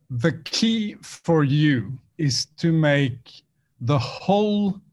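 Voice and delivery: slow, dramatic trailer voice, lightly done; a hint of movie trailer narrator. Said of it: "with your trailer voice".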